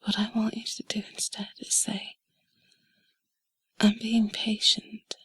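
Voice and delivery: normal talking voice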